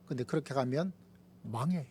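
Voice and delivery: usual speaking voice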